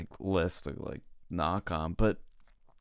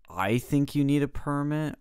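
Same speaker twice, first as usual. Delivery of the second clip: higher-pitched quote of the lady; raised, insistent mock-lady pitch; retold objection; 7 semitones higher than usual. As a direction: imitate her insisting, voice pitched up. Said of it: "I forgot how she worded it".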